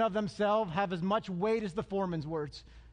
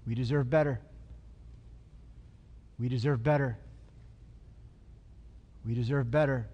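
grumbling Israelites; 8 semitones lower than usual. Acted. Voicing the broken-spirited Israelites.

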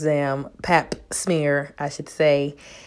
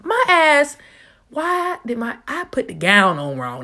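flustered panic; 6 semitones higher than usual. Retold or imitated. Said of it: "and I'm like".

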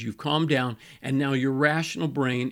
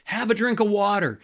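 higher and louder, driving the point home; emphatic repeat; 6 semitones higher, 4 dB louder than usual. Shown as a demonstration. Pastor repeating his advice to couples, higher and louder. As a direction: punch the repeat up, like a firm command. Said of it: "But my point is this".

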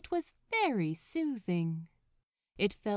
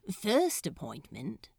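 puzzled question; 3 semitones lower than usual. A narrator's reading. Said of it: "he questioned".

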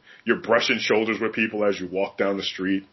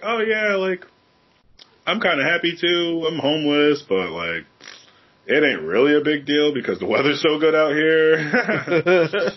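lightly voiced, higher easygoing homeless person; 4 semitones higher than usual. Homeless local chatting about the weather, cheerfully laid-back. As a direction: imitate a contented homeless local, pitched up a little. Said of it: "Even the homeless people were, like".

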